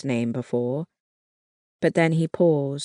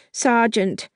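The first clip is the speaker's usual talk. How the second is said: higher, urgent call of his rank; 8 semitones higher than usual. A narrator's reading. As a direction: stop him before he goes. Panicked call to sergeant.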